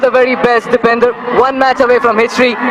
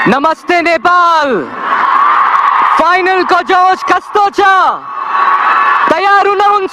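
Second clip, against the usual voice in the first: hype announcer shout; 3 semitones higher, much faster than usual. Real, not acted. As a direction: rev up the crowd. Host hypes crowd at toss.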